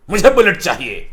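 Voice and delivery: angry demand. Pretend. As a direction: demand the bike like a sulky angry son. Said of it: "गुस्सा होकर बोलते हैं".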